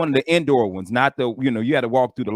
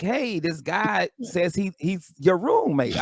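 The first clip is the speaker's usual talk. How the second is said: slow, slightly higher desk clerk; lightly voiced hesitant receptionist; front desk lady; 4 semitones higher, much slower than usual. Motel front desk lady telling a guest about his roommate, hesitant. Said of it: "the lady at the front desk".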